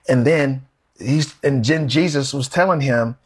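normal talking voice

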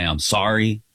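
lightly put-on, low French accent; hammy mock-French accent; terrible French accent. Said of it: "I'll do this terrible accent and say".

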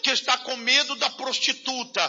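rhythmic preacher's litany, each line falling; fervent pulpit list of fears; preaching at full force. Acted. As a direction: hammer out the fears one by one like a sermon.

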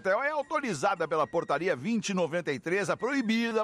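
slow announcer ad voice; radio sponsor read with legal notice. Acted. Reads betting ad and disclaimer. (leitura de anúncio)

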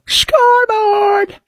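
high drawn-out Scoreboard! yelled slow; mock gloating shout. Host mocking gloating fans: high stretched Scoreboard! shout. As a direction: crow Scoreboard! high and stretched like a sports fan. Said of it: "I just go".

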